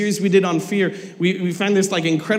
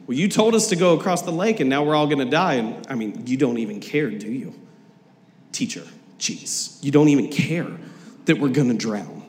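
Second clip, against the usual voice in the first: passive aggressive; 5 semitones lower than usual. Retold or imitated. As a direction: grumble it like you're put out. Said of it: "passive aggressive right here".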